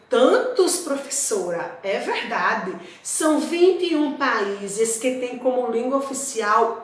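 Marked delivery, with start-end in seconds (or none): 0.1-1.8 a light, surprised student question; mock student surprise. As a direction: voice the student's disbelief. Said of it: "Aí você pode dizer". (aluno surpreso, de leve)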